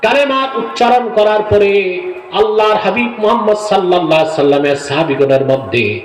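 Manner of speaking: sing-song sermon narration; ওয়াজের বয়ান. A narrator's reading. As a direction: preach the story in long intoned phrases, letting each sink at the end. Preacher narrates a sacred story. (ওয়াজের সুরে কাহিনি বলা)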